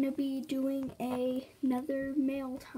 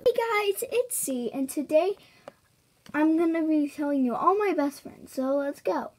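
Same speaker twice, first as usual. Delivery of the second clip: SeaWorld1402AJ impression; 3 semitones higher than usual. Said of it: "Now I'm gonna do SeaWorld fourteen oh two A J".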